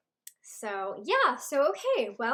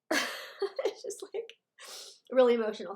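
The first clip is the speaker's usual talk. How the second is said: emotional. Real, not acted. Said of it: "obviously I'm emotional right now".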